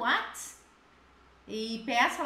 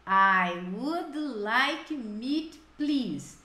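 slow model phrase; slower than usual. Shown as a demonstration. Teacher modeling the phrase for students, slow and clear. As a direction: spell it out slowly for the class.

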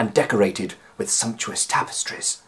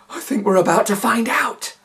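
lightly voiced tense professor; 13 semitones higher, 3 dB louder than usual. A narrator's reading. McMoo speaks.

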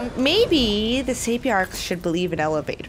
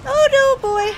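alarmed; 13 semitones higher, 6 dB louder than usual. Real, not acted. Alarm during fight.

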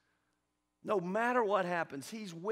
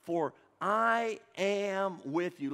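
a louder, unison-style recitation; louder congregational reading; 3 semitones higher, 6 dB louder, slower than usual. Shown as a demonstration. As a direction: read it out loud with the church. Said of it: "Read that with me".

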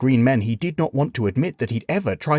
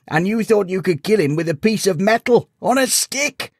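higher, building from placating to incredulous; amused disbelief; 9 semitones higher, 4 dB louder than usual. A narrator's reading. Sage explains the knight's folly, increasingly incredulous. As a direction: build up to a scoffing punchline.

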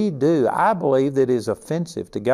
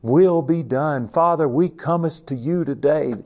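mock Elizabethan prayer; 3 semitones higher than usual. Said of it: "They would use Elizabethan English".

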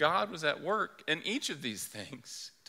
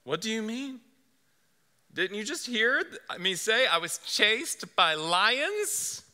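high, incredulous protest; a boy pushing back in disbelief; a mildly indignant high-pitched boy; 9 semitones higher, slower than usual. Acted. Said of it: "And Shasta responds".

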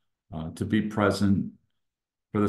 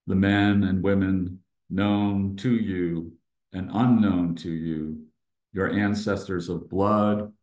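meditative reading. Acted. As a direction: read it like a blessing, phrase by phrase. Reads welcome to open meditation.

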